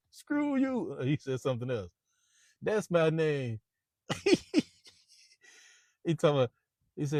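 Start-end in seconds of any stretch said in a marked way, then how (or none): 0.1-1.0 mock shout. Baldwin telling his name. 2.6-3.6 slow taunt. Retold or imitated. Baldwin's slow punchline.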